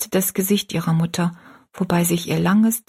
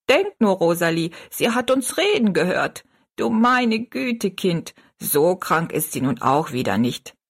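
put-on old woman. Old woman happy chatter.

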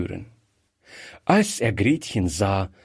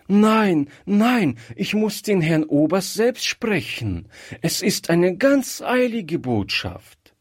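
put-on a girl's voice, higher, pressing; anxious little girl, urgent; 8 semitones higher than usual. Girl begs the maid to see the colonel, higher and urgent. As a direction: insist like a frightened child on a mission.

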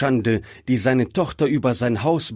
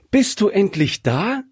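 much higher, happy question; cheerful call; 11 semitones higher than usual. A narrator's reading. Bride to her fiancé as he opens the door, cheerful. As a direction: call it out gladly in a high young voice. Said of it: "rief sie fröhlich".

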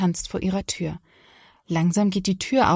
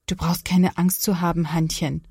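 comforting. Acted. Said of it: "wenn er sie trösten will".

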